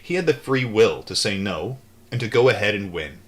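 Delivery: steady read-aloud narration; calm audiobook-style reading; book reading. A narrator's reading. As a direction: read the memoir aloud evenly.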